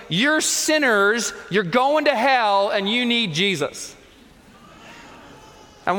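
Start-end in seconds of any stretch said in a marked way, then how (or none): 0.1-3.9 mock yelling. Street preacher on a hillside yelling at passing football fans, mock yell. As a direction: imitate a street preacher yelling, only mildly raised. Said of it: "and he's yelling".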